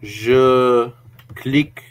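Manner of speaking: put-on slow, tentative French accent; lightly faked French accent; mock French accent. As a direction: try out a French accent, word by word. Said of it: "No, that's not French enough".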